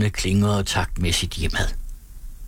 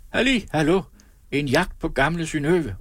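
high hunting halloo; shouting; 7 semitones higher than usual. A narrator's reading. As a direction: call the hunt out high. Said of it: "råbte Edvard".

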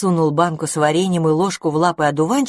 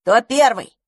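higher, coaxing character voice; eager call; 6 semitones higher, 4 dB louder, slower than usual. Acted. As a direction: call out to the little ones. Feeding the babies.

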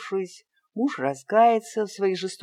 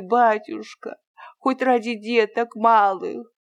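put-on higher and louder, pleading for his children; desperate begging; 5 semitones higher, 5 dB louder than usual. A narrator's reading. Peasant Fyodor begs the master for his children's sake, louder and desperate. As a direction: cry out for mercy for the little ones. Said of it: "продолжал просить Фёдор".

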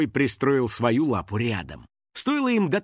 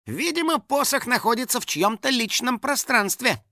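sly teasing; 10 semitones higher than usual. A narrator's reading. Finik teases Kristina, slyly.

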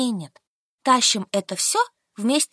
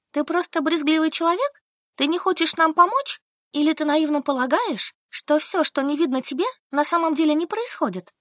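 higher, lightly voiced reproachful heroine; heroine's reproach; 6 semitones higher than usual. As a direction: press her friend with mild reproach. Heroine questions Solka. (слегка укоризненный голос героини)

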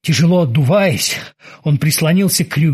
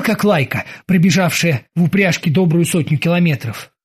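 ordinary delivery

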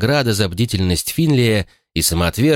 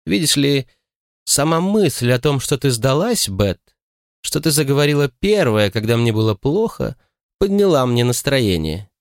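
put-on smug old lady; 6 semitones higher than usual. A narrator's reading. Annabel gloating, smug.

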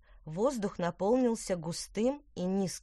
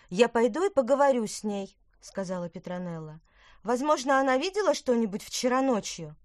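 put-on girl's voice; 5 semitones higher, 5 dB louder than usual. Petronella decisive.

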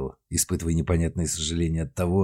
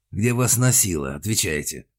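cold metallic demand; металлический голос. Acted. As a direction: bark the order coldly. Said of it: "Металлическим голосом спросил". (металлическим голосом)

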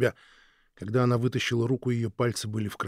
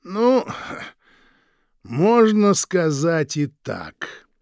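slow sly smile; 6 semitones higher, 7 dB louder, much slower than usual. Acted. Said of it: "расплылся в медленной улыбке".

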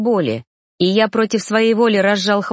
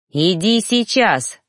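snapped; 2 semitones higher, slower than usual. Acted. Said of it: "рявкнул я на обращённую".

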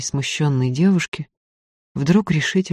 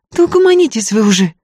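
weary brush-off; 7 semitones higher, 5 dB louder, faster than usual. A narrator's reading. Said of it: "С вымученной улыбкой отмахнулась Варя".

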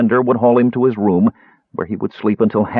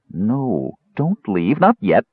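desperate; slower than usual. Acted. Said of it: "Tass cried desperately".

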